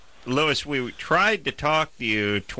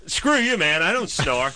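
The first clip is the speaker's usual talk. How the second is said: indignant snorer; 4 semitones higher than usual. Retold or imitated. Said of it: "they get indignant".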